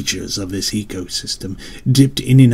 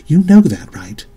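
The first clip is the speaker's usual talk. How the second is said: pressing demand; 8 semitones higher, 7 dB louder than usual. Acted. Mother to silent son, pressing loudly for an answer. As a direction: insist that he admit it.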